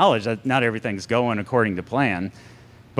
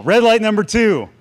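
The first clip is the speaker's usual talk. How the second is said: announcing loudly; 9 semitones higher, 5 dB louder than usual. Acted. Announcing points to congregation.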